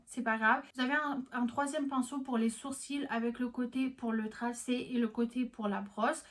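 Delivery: ordinary talk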